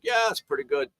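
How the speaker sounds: lightly imitated German accent. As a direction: quote him with a hint of German accent. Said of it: "German accent, he's like".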